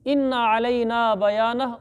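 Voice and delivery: slow recited verse; Quran recitation. Acted. Teacher quoting the verse to students, slow chant. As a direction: draw the Arabic out in recitation.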